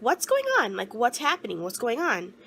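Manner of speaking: first cry pitched high and loud, then settling; reliving the alarm of a confusing phone call; panicked question. Retold or imitated. Daughter on the phone, frightened, demanding to know what happened.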